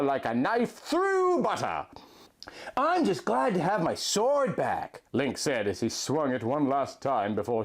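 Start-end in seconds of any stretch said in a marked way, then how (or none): 2.8-5.0 breathy relieved whisper, higher. Acted. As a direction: hush it out, glad to be armed again. Link relieved, voiced by narrator.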